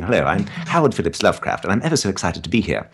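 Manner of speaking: lightly put-on British accent; a hint of British, with dropped r's. Shown as a demonstration. Guest showing the accent he avoids, lightly British. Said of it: "like you're doing a British accent".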